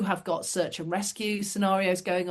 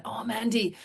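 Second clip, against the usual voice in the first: put-on amateur French accent, slightly higher; 4 semitones higher than usual. Navigator greeting her in the foyer, French accent. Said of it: "this is a French accent".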